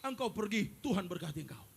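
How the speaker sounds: loud, proclaiming voice of the Lord; God speaking. Retold or imitated. The Lord tells the confessing sinner he is forgiven, proclaiming. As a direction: declare forgiveness with full force. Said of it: "Tuhan bilang".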